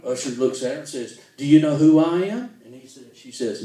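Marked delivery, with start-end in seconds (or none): 1.4-2.6 indignant demand. Acted. Mother's haughty question in joke.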